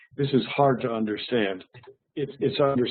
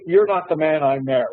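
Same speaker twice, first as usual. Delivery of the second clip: higher, louder wife line; mock wife; 4 semitones higher, 4 dB louder than usual. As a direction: tease as the unimpressed wife. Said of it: "she would say".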